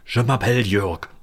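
put-on Kartoffelfranzösisch, German-accented French; heavy German accent French. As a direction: speak French like a German potato. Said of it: "sprich's wirklich mit ganz deutschem Akzent aus".

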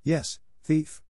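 narrated roar, held in check; mild roar. A narrator's reading. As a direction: throw the accusation back angrily. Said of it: "I roared".

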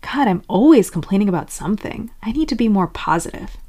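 mildly exasperated self-scolding; a touch of acted frustration; frustrated. Scolding yourself for complaining, mildly frustrated. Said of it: "getting frustrated with it would sound like".

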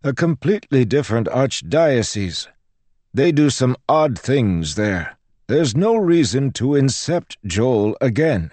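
high, loud priest's rebuttal; dismissive priest. Acted. Priest dismisses the girl's example, exasperated. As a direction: brush off her example as the priest.

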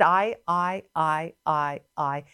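chanted list of I and me, fading; lightly mocking, repetitive self-obsession; Satan's self-centeredness. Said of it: "Do you notice how he said".

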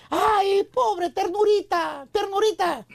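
slow, drawn-out mock pity; mock pitying woman. A woman pitying the shy guy, slow mock tenderness. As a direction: coo it like pitying a puppy. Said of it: "una mujer que te diga".

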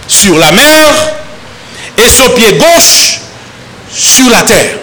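measured, steady Bible reading to the congregation; solemn scripture reading. Acted. Pastor reading scripture to the congregation, measured and solemn. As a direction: read the verses slowly and gravely. Pastor reads verse two.

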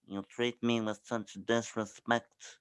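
a lightly put-on wounded customer; low, hurt indignation, half laughing; mock offended voice. Lightly voiced offended caller scolding tech support. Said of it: "I always just do voice impressions".

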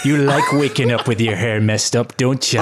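hammed-up sweet talk, drawn out at first; mock seduction. Co-host playfully seducing listeners over beatbox, mock seductive. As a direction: croon it lightly over a groove.

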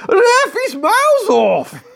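loud, high, drawn-out terrace yell; shouting. Acted. Football fan claims offside at a panto, high drawn-out shout. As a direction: shout an outraged appeal to the ref. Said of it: "And he shouts".

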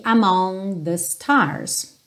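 "among" with the final G dropped. Shown as a demonstration. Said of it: "O G também tem uma tendência a não aparecer".

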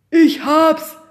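high, loud sudden idea; excited shout. A narrator's reading. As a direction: blurt it out, thrilled. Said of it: "rief Pekka plötzlich".

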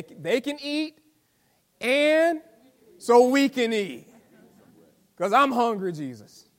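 a lightly hammed-up tired disciple pleading with Jesus; imagined disciple. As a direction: play a hungry grumbling follower, half-joking. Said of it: "I just imagine that the thinking was".

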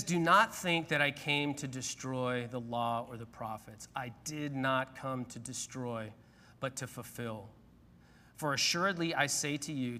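slow, measured reading of the verse; scripture reading. Acted. Preacher reading Jesus' words to the church, slow and solemn. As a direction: read it solemnly, word by word.

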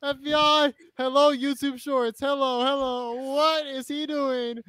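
high put-on agent voice, barking orders; grave federal agent. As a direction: play a raid cop at the door. Pretend FBI raid bit.

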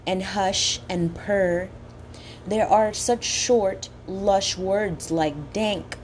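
slow, savoring each word; poem reading. Acted. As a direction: relish the sounds of every word. Reads quoted poem slowly.

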